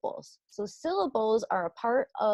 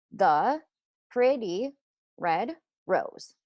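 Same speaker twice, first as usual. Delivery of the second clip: counting syllables; 4 dB louder, much slower than usual. Shown as a demonstration. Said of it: "let's count those syllables".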